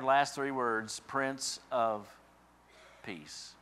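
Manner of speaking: building proclamation of Isaiah, rising to a peak on Mighty God; scripture reading. Real, not acted. Reads Isaiah aloud, building.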